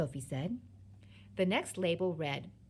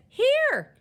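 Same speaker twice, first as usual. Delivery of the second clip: very high, loud yell; piercing childlike reply; shouting back; 13 dB louder than usual. A narrator's reading. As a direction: yell it back even more insistently.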